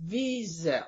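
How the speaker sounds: Wiesel said as VEE-zel, stress on the first syllable; proper Wiesel. Shown as a demonstration. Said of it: "The, the proper way".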